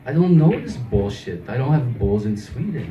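lightly put-on Swedish accent, baffled innocence; hint of mock Swedish accent. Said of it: "stayed in character as the Swedish guy".

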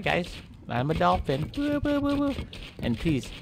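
a hint of a cartoon dolphin greeting people; friendly dolphin. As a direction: chat like a sweet harmless dolphin.

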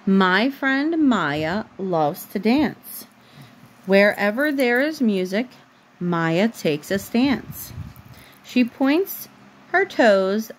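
slow, even storybook reading; reading to a child. A narrator's reading. Mom reading a bedtime book to her daughter, slow storybook voice. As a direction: read the picture book aloud, unhurried, for a little one.

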